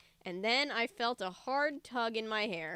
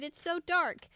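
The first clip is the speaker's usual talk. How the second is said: scared cry; 7 semitones higher, 4 dB louder than usual. A narrator's reading. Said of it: "Luke shouted".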